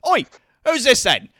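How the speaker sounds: loud, high rough challenge from a villager; suspicious peasant. Acted. Peasant points at Caleb and demands to know who he is, with a loud challenge. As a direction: call out at the stranger. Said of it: "points to Caleb and goes".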